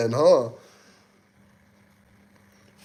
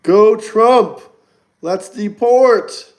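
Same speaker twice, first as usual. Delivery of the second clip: mock cheer; 7 semitones higher, 6 dB louder, much slower than usual.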